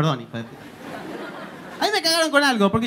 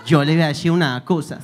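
Pablo Escobar; 7 semitones lower than usual. Retold or imitated. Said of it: "Pablo Escobar". (Pablo Escobar, acento paisa grave)

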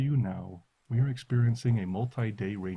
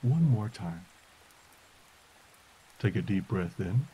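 guided meditation. Acted. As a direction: guide them gently into stillness. Leads a listening meditation.

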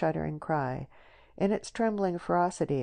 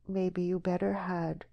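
sorrowfully; 3 semitones higher than usual. Acted. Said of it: "said Deborah sorrowfully".

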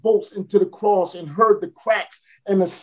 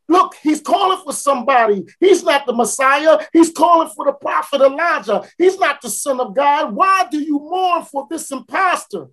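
scornful high mocking; 6 semitones higher than usual.

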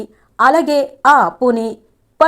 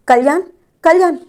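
urgent calling; 6 semitones higher, faster than usual. Acted. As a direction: call out to stop him, rising. Wife calls to angry husband.

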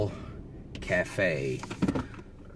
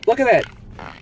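1 excited; 11 semitones higher, 4 dB louder than usual. Real, not acted. Excited pointing.

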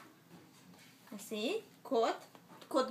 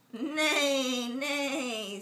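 horse neigh; 3 dB louder than usual. Acted. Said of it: "says the horse".

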